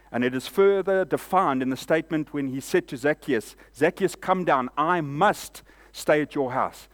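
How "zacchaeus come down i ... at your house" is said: intense call. Retold or imitated. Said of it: "There was a level of intensity there".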